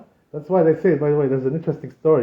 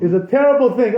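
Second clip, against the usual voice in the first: raised, grieving pronouncement; the old rabbi's grave warning; 6 semitones higher, 6 dB louder than usual. Retold or imitated. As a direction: intone it like a weeping old sage. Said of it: "So he told him, he says".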